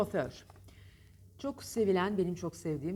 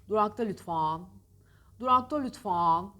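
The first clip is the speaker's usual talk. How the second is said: louder, affected durakta lütfen with a lilt; mock teenage girl; 6 dB louder than usual. Teacher mocking how teenage girls call the stop. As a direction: play the prissy teen on the bus. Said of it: "Genelde genç kızlar yapıyor bunu".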